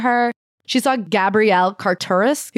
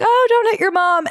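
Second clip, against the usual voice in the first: high, sing-song mock scolding; mock scolding hostess; 10 semitones higher than usual. Host voicing hostess scolding Tori's son, mock scolding. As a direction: play the prim hostess chiding the kid.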